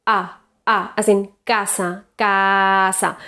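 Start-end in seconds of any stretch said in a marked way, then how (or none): 1.5-3.2 CASA with a central Spanish a. Shown as a demonstration. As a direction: say CASA in Spanish, jaw just lowered a little. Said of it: "In Spanish, a is central".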